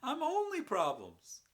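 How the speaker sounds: loud, high laughing outburst; manic laughter. Acted. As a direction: crack up wildly, laughing through the words.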